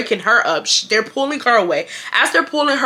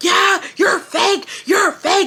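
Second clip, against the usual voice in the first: acted scream, higher; 9 semitones higher than usual. Retelling a classmate yelling in the speaker's face: imitating someone screaming. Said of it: "She's screaming in my face".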